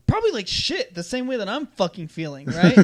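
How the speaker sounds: high, snarky comeback; sarcastic retort. Retold or imitated. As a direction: sass him back. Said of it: "And I was like".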